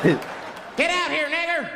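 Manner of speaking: high, drawn-out distant holler; menacing call. Acted. Hooded men to the caller inside, menacing holler. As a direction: call out slowly, pitched high.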